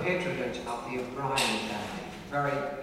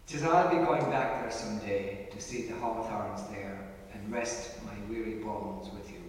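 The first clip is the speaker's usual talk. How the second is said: poem recitation. Acted. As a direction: recite it like a fond ballad. Recites a poem about Clare.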